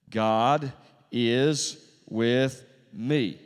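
loud declaration, each word drawn out; congregational declaration. Shown as a demonstration. Preacher leads the congregation in saying it, slow loud declaration. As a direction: proclaim it word by word for all to repeat. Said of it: "Would you sit with me?".

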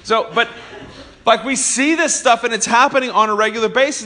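ordinary talk, nothing marked

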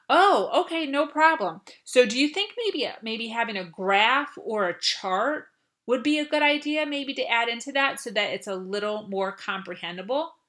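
keen, helpful and upbeat; eager to help. Shown as a demonstration. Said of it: "Take back control and say".

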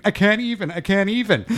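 high-pitched mock white-girl panic. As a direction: squeal it like a girl in a hammed-up panic. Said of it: "I'm white girling".

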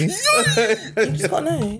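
slow strained grunting delivery; constipated voice. Pretend. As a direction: squeeze it out like you're constipated. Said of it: "Now you sound constipated".

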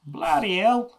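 high, loud posh British exclamation; super British. Shown as a demonstration. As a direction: belt it out like a proper Brit. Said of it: "Just in super British way".

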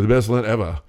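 lightly put-on Australian accent, badly done; a half-hearted go at an Australian "evah"; terrible Australian accent. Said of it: "my terrible ca-, uh, uh, Australian accent".

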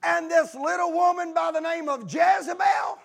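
high, drawn-out protest; indignant retort. Acted. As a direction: protest it slowly, phrase by phrase. Elijah indignantly answering God, acted.

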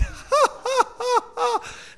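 loud, high-pitched burst of laughter; real belly laugh at his own slip. Real, not acted. Preacher cracks up at losing half his sentence, laughing loudly.

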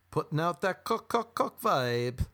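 slowed, breathy-free sultry put-on voice, drawn out; mock sultry drawl on cook; mock seductive cook vibe. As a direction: croon it like a cheesy come-on.

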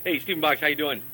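distant caller off the mic; speaking away from the phone; phone held away. Real, not acted. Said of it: "He's gotta talk into the phone".

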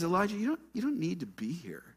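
gentle, coaxing reassurance. Acted. God tells Elijah he needn't stay, gentle tone. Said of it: "right here in this gentle tone".

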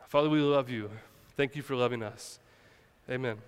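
hushed heartfelt prayer. Real, not acted. Opening prayer before sermon.

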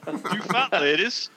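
sing-song bingo call; bingo caller. Shown as a demonstration. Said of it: "give us a few calls".

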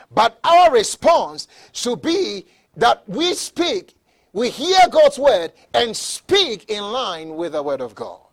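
loud, slow, measured exhortation; emphatic preaching. Real, not acted. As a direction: drive each phrase home slowly. Preaches at full force.

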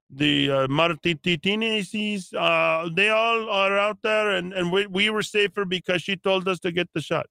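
bad Hispanic accent. Mocking a grateful local resident, bad Hispanic old man accent. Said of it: "the worst Hispanic old man accent I could come up with".

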